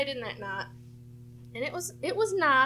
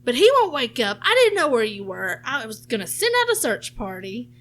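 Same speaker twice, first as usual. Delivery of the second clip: mock panicked mom; 7 dB louder than usual. Mom panicking about husband asleep.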